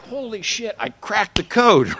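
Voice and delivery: triumphant discovery. Retold or imitated. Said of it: "And I'm like".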